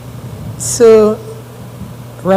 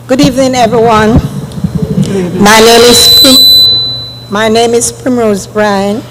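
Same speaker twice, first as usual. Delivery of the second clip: speaking up. Real, not acted. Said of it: "please come back again and speak".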